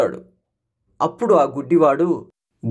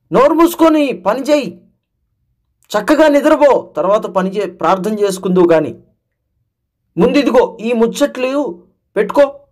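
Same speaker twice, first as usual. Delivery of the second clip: a lightly voiced tempter, higher and brisk; Satan's coaxing; 3 semitones higher than usual. Satan talks a believer out of praying, lightly voiced tempter. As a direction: coax and distract like a sly tempter. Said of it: "అని సాతాను".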